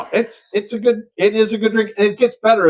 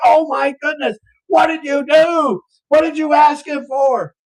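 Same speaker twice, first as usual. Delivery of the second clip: cleaned-up aghast bartender; 9 semitones higher than usual. Acted. Bartender demanding what guy asked for, high aghast cry. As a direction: cry it out high, church-safe outrage. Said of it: "of course, I didn't say that".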